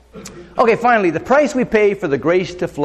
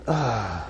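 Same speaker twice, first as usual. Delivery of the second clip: grieved sigh; 6 semitones lower, 8 dB quieter than usual. Acted. Acting out the grieved Spirit.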